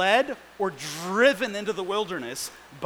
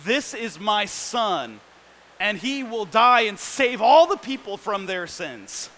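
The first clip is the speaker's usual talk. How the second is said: imagined voice of God; 4 dB louder than usual. Retold or imitated. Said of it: "He could say something like".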